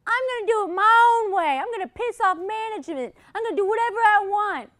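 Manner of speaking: high, loud squeaky elf. Retold or imitated. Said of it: "Maybe not talk like an elf".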